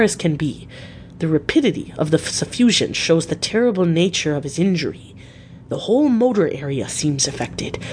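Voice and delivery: lightly voiced professor, lilting pitch; grave professor. Professor deciding on surgery with his colleague, lightly acted urgency. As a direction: explain the urgent case with swooping emphasis.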